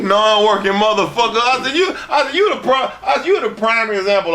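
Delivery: retold tirade. Retold angry put-down of Ian.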